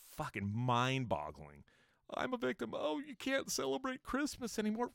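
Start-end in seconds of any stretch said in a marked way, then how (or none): 2.1-4.9 high-pitched mock victim whine; put-on high crybaby voice. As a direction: whine it like a self-pitying crybaby. Mocking conservatives playing the victim.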